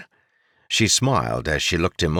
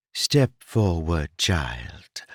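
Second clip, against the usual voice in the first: kindly; much slower than usual. A narrator's reading. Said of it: "a kindly voice requested".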